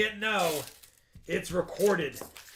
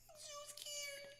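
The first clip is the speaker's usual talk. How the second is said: sarcastic; 26 dB quieter than usual. Retold or imitated. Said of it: "she'll be like this at the end".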